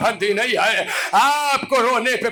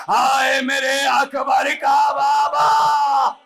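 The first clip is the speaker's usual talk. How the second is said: impassioned preaching; 3 semitones higher than usual. Acted. Preacher voices Zainab's wail for Akbar's father, sung out. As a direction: climb and cry it out to the mourners.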